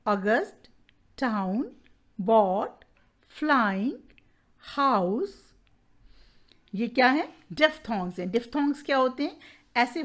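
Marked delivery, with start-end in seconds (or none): 0.1-5.3 अगस्त, टाउन, bought, flying, house one by one, pausing between; diphthong word list. Shown as a demonstration. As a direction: list each word singly, "flying" and "house" rising at the end. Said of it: "इसमें sound है". (हर शब्द अलग-अलग, flying और house पर चढ़ता सुर)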